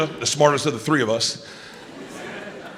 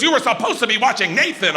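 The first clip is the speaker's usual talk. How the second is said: irate; 5 semitones higher than usual. Retold or imitated. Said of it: "David gets irate".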